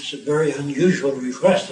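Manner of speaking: put-on hesitant objection in a light French accent. French prime minister answering an odd request, French accent. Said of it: "in a heavy French accent".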